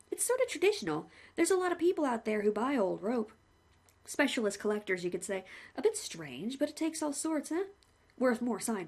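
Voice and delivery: lightly voiced chatty executioner; a hint of a friendly hangman; the hangman greeting the condemned man, cheerfully; cheery hangman. Hangman speaks.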